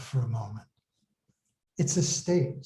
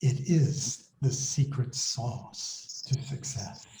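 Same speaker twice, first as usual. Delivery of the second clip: secretive whisper; 2 semitones lower, 5 dB quieter than usual. Acted. Reader confiding the secret to success to listeners, secretive whisper. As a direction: let it out slowly, like a whispered secret. Sharing a secret before reading.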